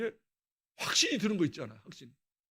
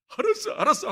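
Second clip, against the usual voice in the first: brushing off; 13 semitones higher, 9 dB louder than usual. Retold or imitated. Brushing off mother while eating.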